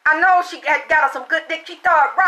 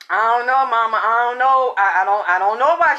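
sheepish son; 4 semitones lower than usual. Retold or imitated. Son answers mother in story.

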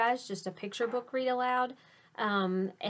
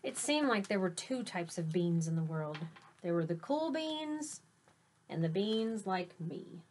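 grand announcement. A narrator's reading. Teacher hyping the cool beans' entrance to kids, showy announcer voice. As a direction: announce them like stars arriving. Reads picture book aloud.

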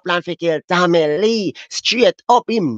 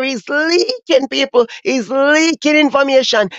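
excited drawn-out hype; 5 semitones higher than usual. Real, not acted. Hyping the leak.

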